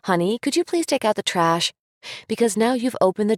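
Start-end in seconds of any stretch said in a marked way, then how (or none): 0.1-1.7 pleading question. Shown as a demonstration. Parent asking child to take out trash, hesitant question. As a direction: ask it like you need permission. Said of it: "Don't turn your instruction into a question like".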